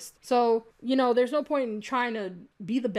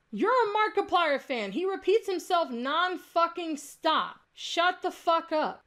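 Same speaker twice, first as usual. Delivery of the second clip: slow, higher-pitched, emphatic irritation; fed-up, drawn-out comeback; exasperated retort; 5 semitones higher, slower than usual. Real, not acted. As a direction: draw out each word in exasperation at a critic. Irritated rebuttal to a critic's comment.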